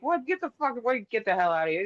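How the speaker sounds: recoiling from the news in shock; disbelief. Retold or imitated. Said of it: "I'm like".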